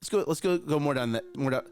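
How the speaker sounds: a light demo of a drill sergeant coach pushing hard; coaching mode. Shown as a demonstration. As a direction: egg the kid on through the reps. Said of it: "I go into my coaching mode".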